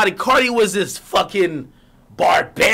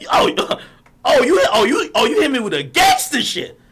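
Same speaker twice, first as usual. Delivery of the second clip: laughing; 5 semitones higher than usual. Real, not acted. Laughing at threat.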